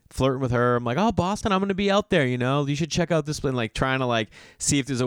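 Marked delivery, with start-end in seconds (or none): 1.0-3.4 mock flirty.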